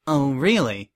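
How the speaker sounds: restrained, unexcited "Oh, really?"; cool inquiry. Acted. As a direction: question it with professional reserve. Prim reacts coolly to the news.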